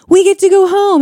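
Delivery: high, lifted, elated quote; retold excitement. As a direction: imitate new parents thrilled to be leaving. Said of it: "you're so excited to get to go home".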